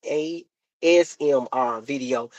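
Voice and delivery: "A S M R video" slowly, letter by letter; careful correction. Shown as a demonstration. Mom correcting herself, slow separate letters in "A S M R video". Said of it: "you be saying it wrong".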